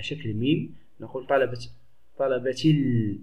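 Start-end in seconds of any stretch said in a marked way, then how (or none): 2.2-3.2 طلبتي ال run together, no glottal stop, long held L; silent hamza in ال. Shown as a demonstration. Teacher showing the unspoken hamza, ال slowly linked to طلبتي. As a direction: glide from طلبتي straight into a drawn-out L. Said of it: "لا تنطق".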